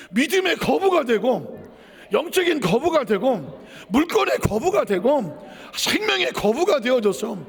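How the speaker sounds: preaching cadence. Acted.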